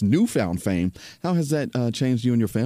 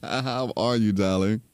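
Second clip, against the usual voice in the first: smooth late-night radio DJ voice; quiet storm voice. Real, not acted. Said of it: "I know a quiet storm voice when I hear it".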